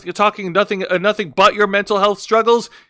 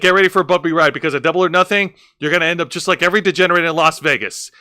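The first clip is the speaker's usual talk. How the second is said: quoting Toni Storm; faster than usual. Retold or imitated. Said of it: "saying, like".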